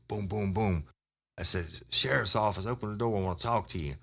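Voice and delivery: lightly acted officer announcing himself at a door; officer calling out. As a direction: call it out like a retold police knock. Acting out his first police knock.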